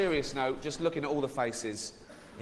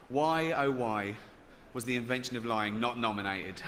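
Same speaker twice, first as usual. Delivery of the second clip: mock lament; 2 semitones lower than usual. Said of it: "emails over the past few days saying".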